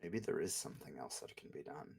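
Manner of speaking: cold noble lord, menacing. Acted. GM voices lord character.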